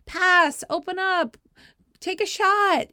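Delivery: high, loud coaching yell; sideline screaming. Retold or imitated. Parent shouting at the girls on court, screaming. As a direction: imitate yourself yelling plays from the sideline. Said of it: "screaming like I always do at the girls".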